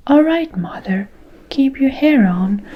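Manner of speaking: loud bratty retort; shouting. Acted. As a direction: snap back loud at mother. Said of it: "Miss Beauregard shouted".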